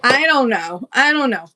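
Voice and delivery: said out loud with a shrug. Real, not acted. Repeating a shrug, louder.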